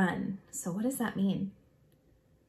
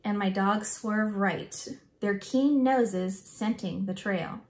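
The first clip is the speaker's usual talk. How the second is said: put-on expressive, measured read-aloud for children; story read-aloud. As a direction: read the picture book aloud with feeling.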